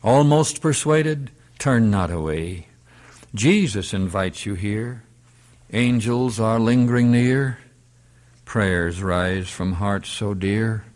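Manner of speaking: measured verse appeal, falling at phrase ends; hymn recitation. Acted. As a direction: recite the chorus as a solemn invitation.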